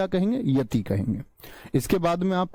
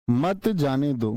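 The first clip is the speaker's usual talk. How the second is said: मत जाने दो as one slow, lower phrase; मत joined to जाने; 4 semitones lower, slower than usual. Shown as a demonstration. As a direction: run मत straight into जाने दो. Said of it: "मैं विराम ले दूं यहां पर".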